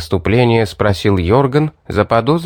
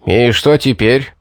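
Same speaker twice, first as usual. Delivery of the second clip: worried. Acted. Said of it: "обеспокоенно проговорил Винсент".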